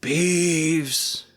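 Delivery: hoarse whisper. A narrator's reading. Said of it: "he said in a hoarse whisper".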